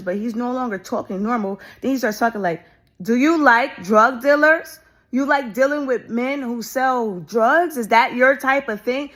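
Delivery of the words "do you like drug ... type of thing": retelling a loud, drawn-out voice meant to be overheard; performing loudly for hidden listeners; loud and slow. Retold or imitated. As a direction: say it slowly and loudly so others in the house hear. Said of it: "he's talking really loud".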